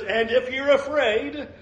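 patient reassurance. Retold or imitated. Preacher voicing God addressing Gideon's fear, patient. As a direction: gently draw out the concession. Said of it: "He says".

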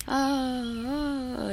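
high eerie moan of a ghost, imitated; ghostly moaning. Friend retelling the bridge ghost story, high ghostly moan. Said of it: "you could hear the people".

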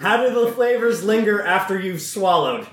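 giggling through the question; trying to read it but breaking up; laughing through words. Real, not acted. Reading the tasting question to his friends, laughing.

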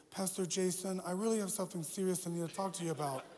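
a hint of the Napoleon Dynamite geek; Kip voice. Youth leader confessing to his pastor, lightly voiced Kip. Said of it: "he sounded just like Kip".

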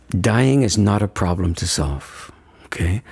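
slow, weighted words with stress on problem; careful emphasis. Shown as a demonstration. Teacher showing the listener the right emphasis, slow and weighted. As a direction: lay each word down slowly, leaning on "problem". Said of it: "the emphasis on the right syllable and say it this way".

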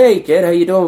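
lightly voiced welcoming busker; upbeat; friendly greeting. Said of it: "they're like".

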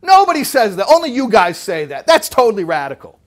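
high and loud, insisting over and over; insistent excited exclamations. Retold or imitated. Scholar insisting to his study partner, excited and loud. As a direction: keep hammering it home, amazed. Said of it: "But then he says it again".

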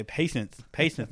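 speaking with a numb tongue; words slurred by a numb tongue. Real, not acted. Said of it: "My tongue is numb on the end".

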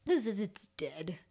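whispered, hushed disgust; grim whisper. Real, not acted. Telling a friend about dead skin in a grim whisper. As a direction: whisper it like it's gross.

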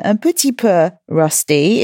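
put-on brief playful French accent. Host jokes about her rusty accent, playful French accent. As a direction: slip into French for a moment. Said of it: "my French accent is a little".

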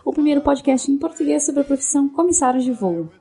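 upbeat scripted show opener; podcast host intro. Acted. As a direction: read it like a radio host. (locução de abertura animada)

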